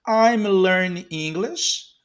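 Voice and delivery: I'm learning English, slow and drawn out, rising end; slow model. Shown as a demonstration. Teacher modelling a phrase for learners, slowly. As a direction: stretch each word for learners.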